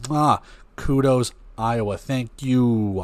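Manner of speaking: mock Italian accent. Thanking Iowa for the red uniforms, in a mock Italian accent. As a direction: toss off a playful Italian-accented kudos. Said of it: "I did Italian right there".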